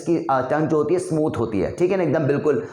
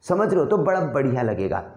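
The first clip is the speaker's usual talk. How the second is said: usual speaking voice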